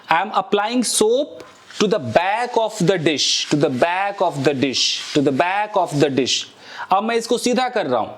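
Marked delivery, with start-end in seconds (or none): 0.1-6.5 slow, careful English model sentence. Shown as a demonstration. Teacher modeling an English phrase slowly for students. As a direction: spell it out slowly for learners. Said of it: "demonstrating while washing".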